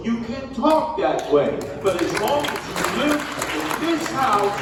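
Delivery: lightly voiced parent laying down house rules; strict parent. Parents scolding their son at home, mildly mock-stern. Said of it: "My mother and father used to tell me".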